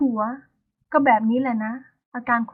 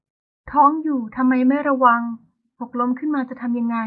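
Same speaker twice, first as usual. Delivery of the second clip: displeased scolding; slower than usual. Acted. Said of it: "น้ำเสียงไม่พอใจ".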